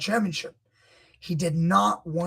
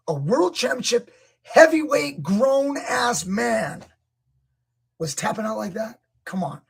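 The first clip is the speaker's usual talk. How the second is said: incredulous rant; 4 semitones higher, 3 dB louder than usual. Real, not acted. Coach ranting about wrestler.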